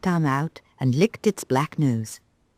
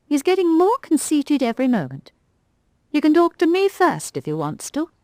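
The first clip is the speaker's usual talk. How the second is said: higher, prim rag doll voice; a proud little doll, miffed; Galdora the rag doll; 11 semitones higher than usual. Acted. Rag doll sniffing at the conceited cat.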